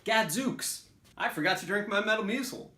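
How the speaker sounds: put-on old man voice. Acting out interjection examples.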